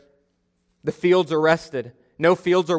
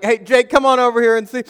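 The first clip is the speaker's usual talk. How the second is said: high, loud put-on cheer; fake enthusiasm; 8 semitones higher, 6 dB louder than usual. Calling brother over to rescue him, faking excitement. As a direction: call out brightly while bluffing. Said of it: "trying to fake it till you make it".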